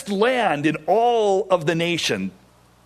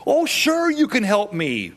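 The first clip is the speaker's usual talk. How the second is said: high, bright eager yes; eager gullible voice; 6 semitones higher than usual. Retold or imitated. Preacher playing the fooled bird, high and eager. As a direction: jump at the offer, naively. Voicing the naive victim.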